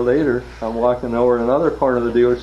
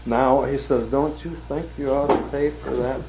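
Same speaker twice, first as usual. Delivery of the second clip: pointed demand; 6 semitones higher than usual. Retold or imitated. Gunman presses him to pay.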